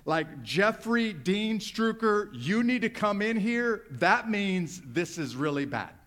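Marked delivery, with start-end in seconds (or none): 0.4-3.8 a hint of a stern mama, slow; mom using full name. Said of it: "If she just called me by my full name".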